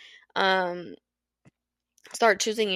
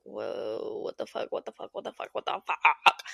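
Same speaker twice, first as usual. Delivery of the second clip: shocked people. Retold or imitated. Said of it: "we're kinda just like".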